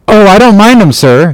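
high-pitched answering voice; reply up to your officer in a high voice; sailor character. A narrator's reading.

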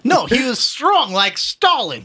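put-on Russian accent. Joking Soviet voice.

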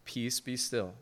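a gentle hush; calm command. Acted. Jesus speaking to the storm, softly and calmly. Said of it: "he just says some words".

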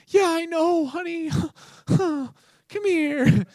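high, syrupy put-on sympathy; mock coddling. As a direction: coo as if comforting a hurt child. Mimics God coddling the complainer.

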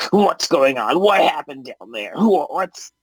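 lightly voiced demanding goblin; a hint of a baffled goblin boss; confused goblin. Goblin leader questions his underling, mildly agitated goblin voice.

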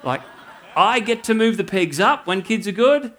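put-on thrilled kid bragging about her new job; a daughter proudly telling dad she's peg controller, excitedly; excited child. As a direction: voice the daughter's eager delight, with a laugh. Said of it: "she came home very excited".

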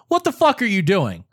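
mildly angry imitation of brother; retold angry yell. Angry brother calling about the cookout, retold angry yell. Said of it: "you called to yell at me".

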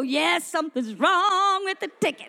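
gleeful re-enacted celebration; excited. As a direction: draw out WRONG with delight. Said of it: "I was so excited".

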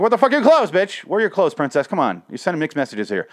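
half-joking indignant shouting at a comic character; exasperated rant. Retold or imitated. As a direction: yell at the character in disbelief. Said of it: "And I'm like".

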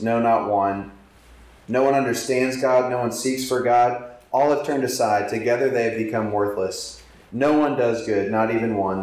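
solemn public reading of the verse; scripture reading. Acted. Preacher reads Romans aloud to congregation, solemn. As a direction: read Scripture aloud with steady weight.

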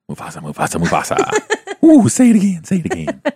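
stretched, rising Mufasa call; Lion King quote. Retold or imitated. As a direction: draw out the name, climbing way up. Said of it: "The Lion King".

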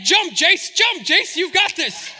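high, loud egging-on shout; Isaiah. Retold or imitated. Boy urges Jace to leap the creek, shouting excitedly. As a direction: imitate a kid cheering on a jump. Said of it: "Isaiah's over here like".

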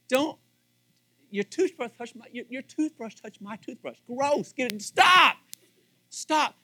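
hammed-up newlywed recoiling at shared toothbrush; mock disgusted protest. Pastor acting out newlywed spouse, mock disgusted yelling.

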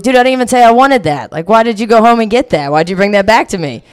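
baffled and annoyed at him; exasperated. Retold or imitated. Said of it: "And I was like".

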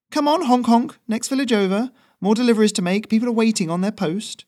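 very high, loud mock-grand address; teasing the goose with a grand title; Ferrino's voice. Messenger mock-grandly addresses his goose, very high.

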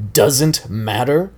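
slow, stretched, incredulous echo; roared disbelief. Acted. Sensei mocking his student's answer, slow and incredulous. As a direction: throw his words back at him. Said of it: "Johnny roared".

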